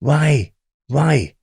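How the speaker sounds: calling his name across the cells. Retold or imitated. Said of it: "shouting out".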